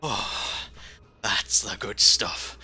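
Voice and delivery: slow, relieved drawl in a put-on accent; changed accent. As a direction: savour it in an Australian-sounding accent. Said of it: "But her accent changed?".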